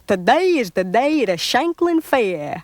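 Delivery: cajoling. Acted. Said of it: "cajoled the wolf".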